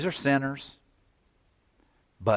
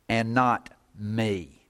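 "And not me" said slowly, weight on "me"; stress on not me; slower than usual. Shown as a demonstration. Preacher slowly stressing "me" to show where the emphasis is. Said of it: "there's where the emphasis is".

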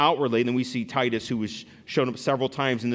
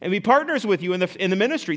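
pitched up, eager begging plea; eager pleading; 6 semitones higher, 4 dB louder than usual. Retold or imitated. Macedonian believers begging Paul to let them give, eager pleading. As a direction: beg earnestly to be allowed to give. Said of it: "they, they begged us".

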